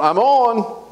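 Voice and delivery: a high little light-switch voice; talking light switch. Pretend. Preacher voicing the light switch, high and small. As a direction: give the light a tiny voice.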